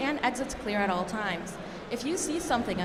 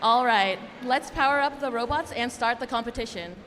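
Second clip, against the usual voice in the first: loud hype announcement; 4 dB louder than usual. Real, not acted. Kicking off the competition.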